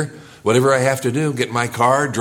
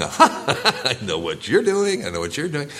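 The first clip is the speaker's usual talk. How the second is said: mock prophet; 2 semitones higher than usual. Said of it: "up here with a word of knowledge saying".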